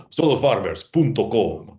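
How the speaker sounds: Spanish-accented radio ad announcer; Spanish ad guy voice. Shown as a demonstration. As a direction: sell it like a Spanish commercial. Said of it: "I'm really good at the Spanish language ad guy voice".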